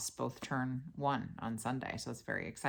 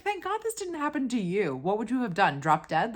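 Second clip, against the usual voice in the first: dramatic mom impression; 8 semitones higher, 6 dB louder than usual. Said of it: "she's so intense and dramatic".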